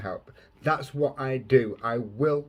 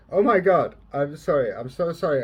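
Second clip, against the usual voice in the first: welling up; 2 semitones higher, 7 dB louder than usual. Real, not acted. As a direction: overcome with feeling, apologising as it spills out. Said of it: "I'm getting really emotional right now".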